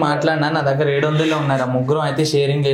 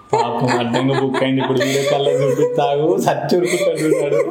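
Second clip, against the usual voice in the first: laughing. Real, not acted. Laughing about friend on call.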